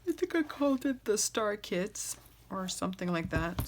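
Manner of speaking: talking through a yawn. Real, not acted. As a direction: say it mid-yawn, sleepy. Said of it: "Sorry, I'm yawning".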